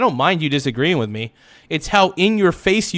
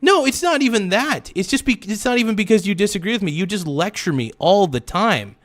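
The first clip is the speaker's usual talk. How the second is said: higher and fast, words tumbling out upset; real agitated outburst, pitched up; freaking out; 5 semitones higher than usual. Real, not acted. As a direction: let the panic push the pitch up and rush. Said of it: "I am freaking out".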